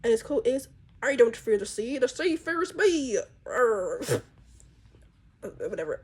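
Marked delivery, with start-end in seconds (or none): 1.0-4.0 lightly put-on pirate accent, self-mocking; a half-hearted pirate accent, drawn out at the end; bad pirate accent. Artist voices her pirate cat in a weak pirate accent. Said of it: "I cannot do a pirate voice".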